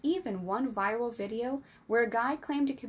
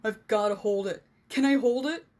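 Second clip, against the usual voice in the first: louder, rising excited plea; eager begging; 7 dB louder than usual. A narrator's reading. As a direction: beg to hold it like an overexcited puppy. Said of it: "like a puppy's begging for a treat".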